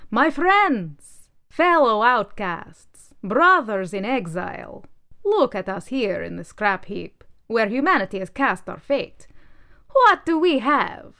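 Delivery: a high, loud rallying orator voice, slowing for effect; rallying manifesto. Acted. Manifesto rallying the discarded junk, high and loud. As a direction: rouse the outcast crowd like a demagogue. Political manifesto addresses the landfill.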